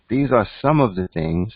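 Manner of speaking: "some" lifted in pitch within the phrase; stress on some. Real, not acted. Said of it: "let me emphasize some".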